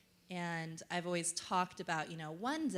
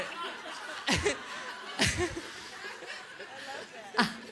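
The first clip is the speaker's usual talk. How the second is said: laughing; 8 semitones higher, 9 dB louder than usual. Real, not acted. Laughing at spa voice.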